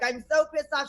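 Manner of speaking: restrained, annoyed retelling; toned-down mock scolding; slight yell. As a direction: barely raise the voice, just irritated. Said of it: "I did, like, a slight yell".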